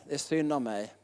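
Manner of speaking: mocking self-pitying people, a sinking mock moan; self-pitying whine. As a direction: sigh out the pity for yourself. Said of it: "Så vill man ha lite medömkan".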